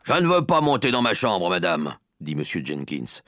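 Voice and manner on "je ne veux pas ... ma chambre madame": irritated, slightly raised voice; put-out man brushing someone off; curt refusal. Acted. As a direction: dismiss her, louder and a little higher. Rude father refusing grandmother's request.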